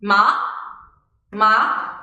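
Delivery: rising "ma", like a question; questioning upward glide on "ma"; second tone. Shown as a demonstration. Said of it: "this is how it sounds".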